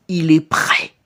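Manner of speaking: slightly low, hushed announcement; a hint of dark hush; ominous character. Character announcing that he is ready, hushed and lightly ominous.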